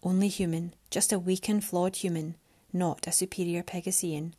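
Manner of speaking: quiet bitter echo, fading to a whisper. Acted. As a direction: mutter it with hurt sarcasm. Mariana bitterly repeats his words.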